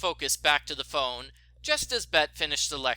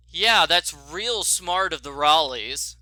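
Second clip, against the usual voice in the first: sarcastic; 6 dB louder, slower than usual. Acted. Nancy's sarcastic thought.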